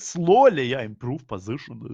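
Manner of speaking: robotic, warped voice changer effect. Pretend. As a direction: talk like it's through a voice changer. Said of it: "It sounded like you were using a voice changer".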